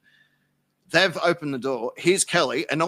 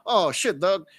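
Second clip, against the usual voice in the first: imitating Kelly; 5 semitones higher, 5 dB louder, slower than usual. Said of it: "'cause she's African-American".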